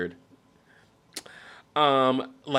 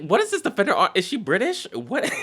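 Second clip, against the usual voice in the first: incredulous laughing shout; 10 semitones higher, 4 dB louder than usual. Real, not acted. Laughing disbelief at the phrase.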